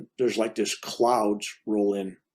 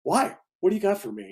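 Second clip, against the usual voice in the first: skeptical; 7 semitones higher, faster than usual. Retold or imitated. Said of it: "And I go".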